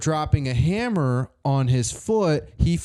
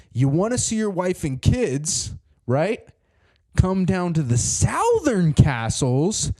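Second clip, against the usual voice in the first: slow, higher, menacing note reading; ominous ransom note; 4 semitones higher than usual. Acted. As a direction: draw out the threat like a villain. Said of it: "Note on the door that says".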